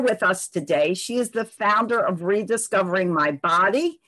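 dull, muffled microphone sound. Real, not acted. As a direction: voice through a muffled mic. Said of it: "I apologize in advance for my muffled microphone".

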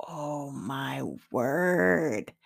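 breathless hushed whisper, close to tears; awed whisper. Retold or imitated. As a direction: whisper it as the truth hits you. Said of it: "unvoiced whisper, crying".

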